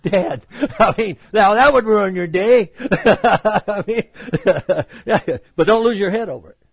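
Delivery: real chuckling through the words; laughing. Real, not acted. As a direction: crack up at your own grim joke. Laughs at own morbid joke.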